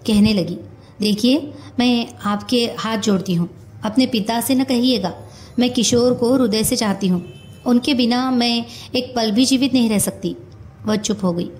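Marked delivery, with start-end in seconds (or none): 1.0-10.4 mildly halting, pleading delivery; halting plea. A narrator's reading. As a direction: plead in short, paused phrases. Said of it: "सहसा वह रुक रुक कर". (रुक-रुक कर हल्की विनती)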